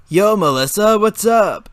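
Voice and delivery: upbeat shout of welcome; excited friendly greeting. A narrator's reading. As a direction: call out happily to an old friend. Crowd of friends greeting Melissa.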